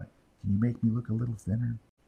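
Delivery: soft, hushed, confiding stage whisper. Retelling how portrait customers ask for retouching: imitating a customer half-whispering. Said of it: "and they always whisper it".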